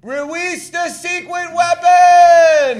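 high, slow, shouted cartoon villain cry; squealing villain quote from an old cartoon. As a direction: bellow it like a movie baddie. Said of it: "Remember that from American Tail?".

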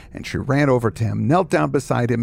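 ordinary delivery

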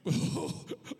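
breath bursting out while holding back laughter; stifled laugh. Retold or imitated. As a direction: act out trying not to crack up. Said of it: "try to keep a straight face".

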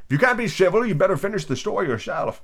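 petulant sleepy creature; sulky. Acted. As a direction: grumble it in a woozy little voice. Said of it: "sulkily remarked".

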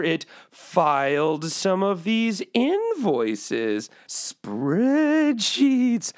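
a hint of a spooky ghost; lightly voiced ghost boss. Boss telling ghosts to do office work, light ghost voice. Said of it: "I'm doing the ghost voice".

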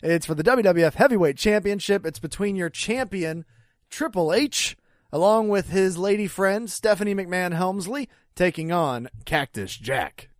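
mock ring-announcer match introduction. Co-host introducing the Hell in the Cell match, announcer style.

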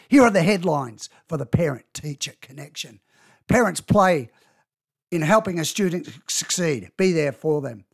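half-hearted news anchor read; newsreader voice. Acted. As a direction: read headlines like a newsreader, mildly. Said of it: "I tried to put on a newsreader voice there".

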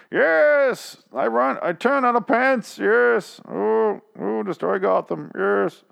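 mocking old-timey English accent, pitched very high; hammed-up old-timey England accent, drawn-out vowels; Ezekiel. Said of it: "his stupid fucking accent that he's using, like, old-timey England".

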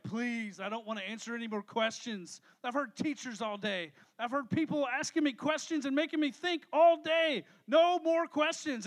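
mock exasperation. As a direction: plead lightly, then build to an emphatic refusal. Acting worn-out child refusing questions.

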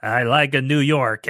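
light mock New York accent; imitated New York comic's accent. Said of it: "He's got the New York thing".

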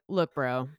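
lightly put-on bro voice; a hint of tough bro; tweaked bro voice. Shown as a demonstration. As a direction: drop out of the sweet act into blunt bro talk. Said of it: "I will definitely tweak it".

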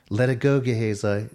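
loud warning call. Real, not acted. Preacher calling after the greedy servant, loud. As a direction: shout a warning after him.

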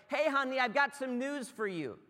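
butter him up before the news; sweet fiancee. Retold or imitated. Fiancee breaking news to Joseph, coaxing. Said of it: "Your fiance's just showed up and is like".

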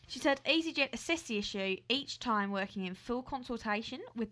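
an attempted Aussie accent; put-on Australian accent. Co-host starting the airline story, put-on Australian accent. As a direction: present the story as a playful Australian. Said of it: "You're losing it".

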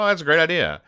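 high, chirpy cartoon reply; delighted agreement. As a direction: jump on the idea eagerly. Voices comic character's delighted agreement.

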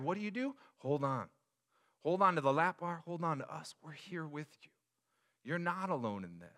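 put-on calm a frightened child; reassuring parent. Parent teaching scared kids to hold on, soft reassuring. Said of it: "what we had to teach them".

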